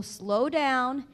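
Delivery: very slow, every sound spelled out; slow over-articulation. Shown as a demonstration. Therapist showing a patient how to speak, slow and deliberate. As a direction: stretch each sound deliberately, slowly. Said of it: "So I say to people".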